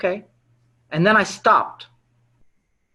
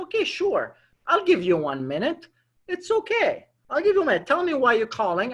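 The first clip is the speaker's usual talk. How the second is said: easy agreement; 6 semitones higher than usual. Retold or imitated. Voices prospect agreeing to a minute.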